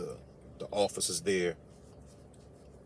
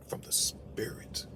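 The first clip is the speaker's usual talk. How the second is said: mystical whisper; 9 dB quieter, slower than usual. Pretend. Hushed mystical aside.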